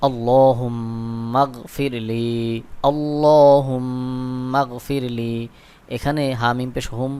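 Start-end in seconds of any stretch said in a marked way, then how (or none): 0.1-5.3 long drawn-out chant of the supplication; slow memorizing recitation. Shown as a demonstration. Teacher chanting slowly so viewers memorize. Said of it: "দোয়াটি মুখস্থ কিভাবে করবেন".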